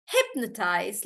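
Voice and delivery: hypnotize with HYP stressed; stress on HIP. Shown as a demonstration. Teacher modelling hypnotize, first syllable stressed. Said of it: "it's actually on hip".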